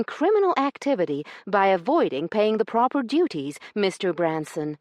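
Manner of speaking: high, loud, prim indignant lady's voice. Acted. Io accusing Branson over the missing stamps, indignant and high. Io confronts the smuggler.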